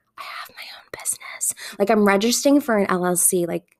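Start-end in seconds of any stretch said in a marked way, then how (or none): 0.2-1.6 playful, secretive, very hushed, barely voiced whisper. Admitting that a year later they run their own business: mock whisper. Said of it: "I feel like I have to whisper that".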